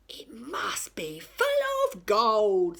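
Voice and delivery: a pirate breathing the word gold; greedy whisper. A narrator's reading. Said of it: "said Hank Chief".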